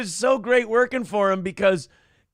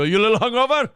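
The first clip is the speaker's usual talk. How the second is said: louder, higher playful teasing; jovial boss; 5 semitones higher, 6 dB louder, faster than usual. Retold or imitated. Owner teasing a male server about his night, jovial. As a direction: imitate a boss cheerfully ribbing his worker. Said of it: "it'd be jovial".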